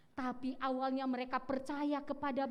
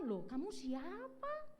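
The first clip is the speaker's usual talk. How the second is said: puzzled pastor; 9 semitones higher, 4 dB quieter, slower than usual. Retold or imitated. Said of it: "kata si pendeta".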